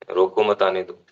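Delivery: "रोको मत" together, then "आने दो"; pause after मत. Shown as a demonstration. Teacher showing the comma's place, pause after मत. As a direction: break after मत before saying आने दो. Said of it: "रोको मत के बाद हमने कोमा लगा दिया".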